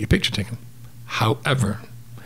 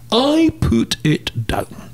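very slow, higher-pitched punchline; emphatically drawn out; 11 semitones higher, much slower than usual. Retold or imitated. Storyteller obeying the biting lion, slowly and emphatically drawn out. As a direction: stretch every word for comic weight. Deadpan climax of bite story.

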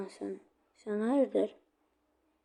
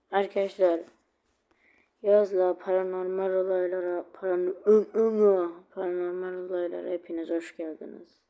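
mock show host; 4 dB louder than usual.

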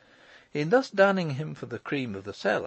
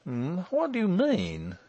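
high, startled question; alarmed cry; 7 semitones higher than usual. A narrator's reading. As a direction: ask it in rising alarm. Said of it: "he cried".

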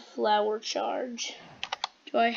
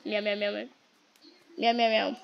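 short bursts of quick meows; repeated meowing. Pretend. Player covering background noise, repeated meowing. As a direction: meow steadily as noise cover. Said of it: "Just screaming this in the mic".

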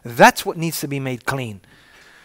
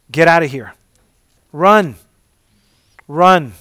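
urgent shout; 7 dB louder than usual. Acted. Preacher urging them to flee.

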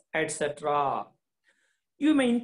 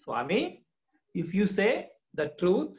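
lightly voiced mother, higher and quicker; coaxing mother; 3 semitones higher, faster than usual. Teacher voicing the mother reassuring Swami, coaxing. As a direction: coax him gently toward the truth.

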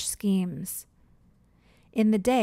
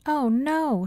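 alarmed shout, higher and louder; 6 semitones higher, 4 dB louder than usual. Acted. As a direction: cry out in alarm as the wolves appear. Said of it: "shouted Lucy's mother".

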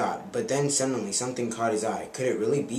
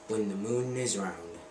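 magic lizard. Acted. Narrator voices the magic lizard.

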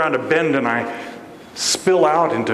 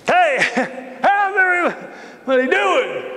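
laughing; 13 semitones higher, slower than usual. Acted. Repeats greeting to silent room.

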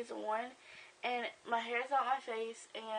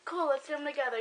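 higher, lightly acted excited friend; imagined friends chatting; 4 semitones higher than usual. Bored friends over at the house, lightly acted chatter. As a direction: play friends eagerly making plans, lightly. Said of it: "they're like".

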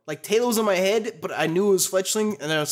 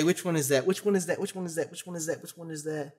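repeated question fading very soft; muttered pondering; 2 semitones lower, 6 dB quieter than usual. Real, not acted. Gamer puzzling over the quiz Pokemon, fading mutter. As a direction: trail it down to a tiny mutter.

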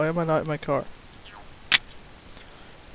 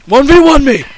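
shouted, higher gamer dare; loud challenge; 8 semitones higher, 10 dB louder than usual. Real, not acted. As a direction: call it out as a dare.

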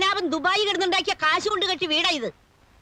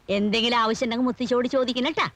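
butter him up like a doting granny; sweet grandmotherly fawning; 3 semitones lower than usual. Acted. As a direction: grandmother suddenly sweet to the feared lodger. Grandmother sweetly flatters the convict.

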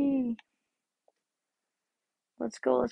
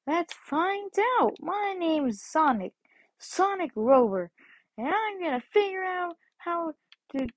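a lightly raised, bouncy cartoon hero voice; Sonic impression; 2 semitones higher than usual. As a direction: dub the hedgehog with a hint of cheer. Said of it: "voice myself as Sonic".

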